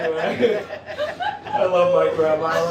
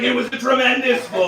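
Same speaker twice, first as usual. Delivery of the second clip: Trump voice; 5 semitones higher than usual. Retold or imitated. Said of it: "she's like".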